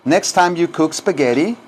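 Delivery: measured teaching delivery with rising end; repeat-after-me model. Shown as a demonstration. Teacher models the translation for students, measured, rising. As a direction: say it carefully for learners to echo.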